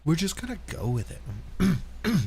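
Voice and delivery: slow mock whine; LSP voice. Host channeling a cartoon princess, mock whine. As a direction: drag it out like LSP. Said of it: "channel my inner L S P".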